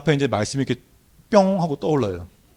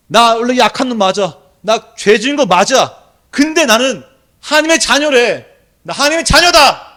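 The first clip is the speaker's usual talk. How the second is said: high, loud, building declaration; triumphant shout; 10 semitones higher, 10 dB louder, slower than usual. Retold or imitated. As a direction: cry it out in victory. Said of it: "그렇게 외치니까".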